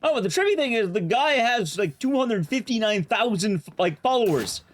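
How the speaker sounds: high, amazed and lively; excited. Real, not acted. Amazed at follower count.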